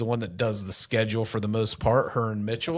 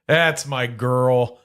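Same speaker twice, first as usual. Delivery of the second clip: louder and slow, drawn out; slow proud declaration; 2 semitones higher, 6 dB louder, much slower than usual. Shown as a demonstration. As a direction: announce it proudly, slowly.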